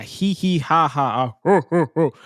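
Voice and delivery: spelled-out fake laugh, syllable by syllable; mock laughter. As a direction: act out bursting into exaggerated laughter. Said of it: "I bust out laughing".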